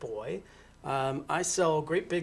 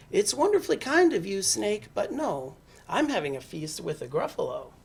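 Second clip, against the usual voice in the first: lightly voiced mouse, higher at first; polite mouse; 4 semitones higher than usual. Mouse turns down Snake's feast, polite and slightly high.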